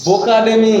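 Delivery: বোকাডেমি misread on purpose; বোকাডেমি, a planted misreading; deliberate mistake. Shown as a demonstration. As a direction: say বোকাডেমি wrongly to test students. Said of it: "যদি ভুল করি".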